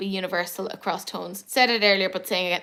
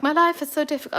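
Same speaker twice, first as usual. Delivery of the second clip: mopey cat voice; 5 semitones higher, faster than usual. Retold or imitated. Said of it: "he does give you that whole".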